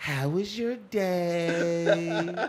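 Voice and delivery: very slow, put-on teasing drawl. Imitating a co-host's way of talking to tease her: mocking imitation of a friend. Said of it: "I don't talk like that".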